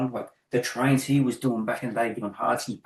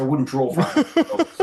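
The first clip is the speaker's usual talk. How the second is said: scornful; 4 semitones higher, 6 dB louder than usual. Retold or imitated. Retold scornful retort to client.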